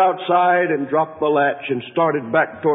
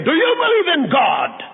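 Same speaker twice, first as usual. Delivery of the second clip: shouted question; 13 semitones higher than usual. A narrator's reading. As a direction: hurl the question at him. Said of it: "he fairly shouted at him".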